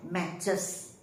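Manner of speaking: MATCHES spoken as mat-ches; two-syllable pronunciation. Shown as a demonstration. Teacher explaining the plural, two-syllable pronunciation of MATCHES, mat-ches. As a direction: say "matches" with both syllables distinct. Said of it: "So the pronunciation becomes".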